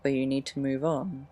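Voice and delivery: measured poem reading with long pauses. Acted. Sharing own teenage poems with listeners, poem reading. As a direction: read it line by line, letting each phrase rest.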